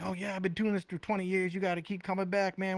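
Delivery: quoting veteran comic. Retold or imitated. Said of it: "they're like".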